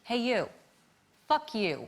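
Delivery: carefully mouthed words, separated by pauses; mouthed insult. Retold or imitated. Daniel Craig mouthing across the party, deliberately spaced. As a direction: imitate someone mouthing across a room. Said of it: "he mouths this".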